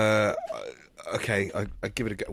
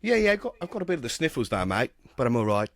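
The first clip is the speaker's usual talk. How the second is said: fake Australian accent. Host insists to doubting guest he has sniffles, in a mock Australian accent. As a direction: bluff through it in a bad Australian accent. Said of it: "You sound really different".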